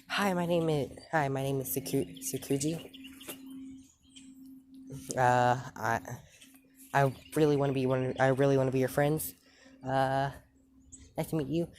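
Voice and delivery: put-on high, fast eager child's voice; eager little girl. Little girl meeting Deku, high, fast and eager. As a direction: rush it out like an excited little kid.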